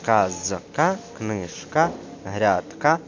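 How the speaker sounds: slow words split at the syllable break. Shown as a demonstration. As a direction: show where each syllable ends. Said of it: "відходять з попереднього складу". (по складах, з розділенням)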